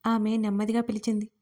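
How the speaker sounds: plain reading voice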